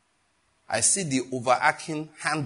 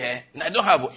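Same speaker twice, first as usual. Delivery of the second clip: laughing denial; 6 dB louder, faster than usual. Retold or imitated. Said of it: "You say".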